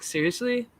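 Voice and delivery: whispered, incredulous; disbelieving whisper. Retold or imitated. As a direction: breathe it out in disbelief. Disbelief at news.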